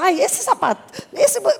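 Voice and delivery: high, laughing bridal gushing; delighted gushing. Retold or imitated. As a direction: gush over it in a high voice. Acting brides delighted at donated items. (encantada, voz aguda de noiva)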